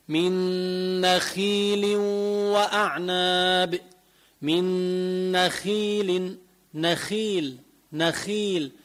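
نخيل with a thin "khii"; light خ. Shown as a demonstration. Teacher modelling kasra for students, thin خ in نخيل. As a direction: recite it keeping the خ of نخيل light. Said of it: "أما لو كسرت ترقق".

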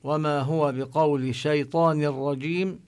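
chanted Quran verse, drawn out; Quran recitation. Acted. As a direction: recite the verse slowly and carefully.

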